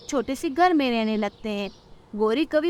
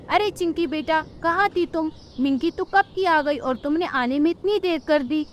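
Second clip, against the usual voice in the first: higher mother bird voice asking where she was; a mother scolding gently; mother bird calling her late daughter; worried mother bird; 4 semitones higher than usual. Acted.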